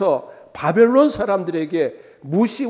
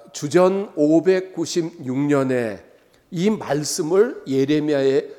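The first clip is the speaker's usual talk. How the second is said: usual speaking voice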